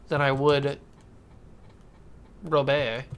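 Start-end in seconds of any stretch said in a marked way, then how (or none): 2.4-3.0 Robert said as "Roh-BEH", the t dropped, stress on the end; Robert the French way, "Roh-BEH"; French-style Robert. Shown as a demonstration. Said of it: "I like saying it like that".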